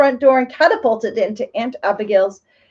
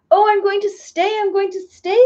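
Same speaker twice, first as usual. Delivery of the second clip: excited cry; 8 semitones higher than usual. A narrator's reading. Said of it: "screamed Betsy".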